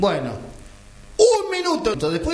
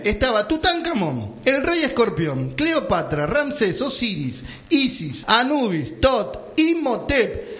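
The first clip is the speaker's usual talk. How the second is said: higher-pitched, emphatic comic list; dramatic roll call; 4 semitones higher, slower than usual. Acted. Storyteller listing the absurd crowd in the wall, dramatic roll call. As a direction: announce each name like an astonishing revelation.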